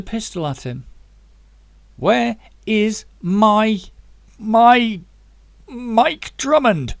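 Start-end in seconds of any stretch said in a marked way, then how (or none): 2.0-6.9 slow, much louder and higher shout. Acted. Zack with the gun on the wounded man, slow shout. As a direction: roar the question, each word dragged out. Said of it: "he shouted".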